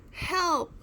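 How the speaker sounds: high, loud cry for help; scream for help. A narrator's reading. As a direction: yell in fright. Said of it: "screamed Shay".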